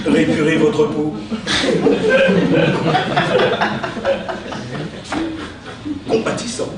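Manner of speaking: theatrical verse recitation, with pauses; hammy stage actor. Acted. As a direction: declaim each insult like Cyrano. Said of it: "utiliser son style".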